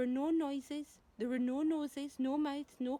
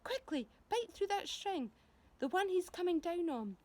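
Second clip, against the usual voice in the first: urgent command; 7 semitones higher, 3 dB louder than usual. Acted. James urging the centipede.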